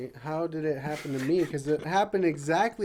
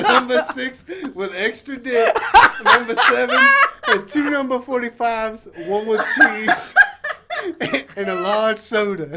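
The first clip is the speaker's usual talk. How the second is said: laughing; 6 semitones higher, 8 dB louder than usual. Real, not acted. Reciting order while laughing.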